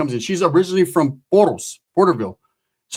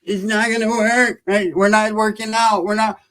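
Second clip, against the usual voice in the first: higher, slow, drawn-out voice of dismay; 5 semitones higher, much slower than usual. Retold or imitated. Comedian acting out his dismay at the bare car. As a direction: let the bad news sink in slowly. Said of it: "I'm like".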